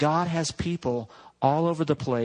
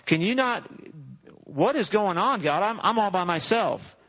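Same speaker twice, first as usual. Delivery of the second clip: higher, complaining pity-party voice; whiny Elijah; 5 semitones higher than usual. Acted. Elijah complaining to God at his pity party, whiny and higher. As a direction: whine to God that you're all alone. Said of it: "Elijah's pity party".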